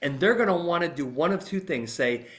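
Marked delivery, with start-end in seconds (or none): none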